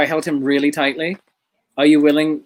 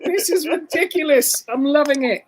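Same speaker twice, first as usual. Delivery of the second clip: delighted; 9 semitones higher than usual. Real, not acted. Delighted at the puppet.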